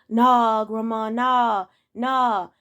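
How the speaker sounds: slow, dismissive "nah, grandma" with a lightly voiced grandson. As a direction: wave grandma off. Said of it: "grandson brushing off grandma".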